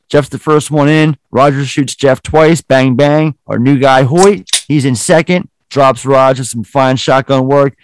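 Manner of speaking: a crooked cop scripting a fake shootout for his crew, in a commanding voice; Alonzo taking charge. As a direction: bark out the cover story like a squad leader. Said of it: "He's like".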